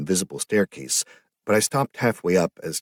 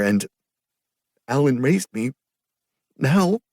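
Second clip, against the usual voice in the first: much higher, wet half-laughing voice; teary girl; 6 semitones higher, 5 dB louder than usual. A narrator's reading. Sister remembering her brother, high and tearful. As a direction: smile through tears, then sink back. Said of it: "She giggled wetly".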